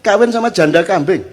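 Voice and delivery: mildly indignant husband, pitched high; angry husband. Acted. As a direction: voice a husband's mock outrage. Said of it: "marahlah suaminya".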